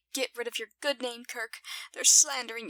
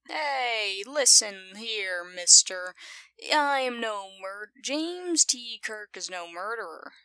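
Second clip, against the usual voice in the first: mock indignant; 3 dB louder, slower than usual. Mock telling-off on Kirk's behalf.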